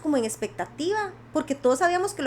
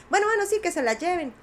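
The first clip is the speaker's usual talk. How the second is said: lightly voiced boss, pitched up; retold boss's consent; 5 semitones higher than usual. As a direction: give in with a high-pitched mock okay. (jefe que consiente, levemente imitado)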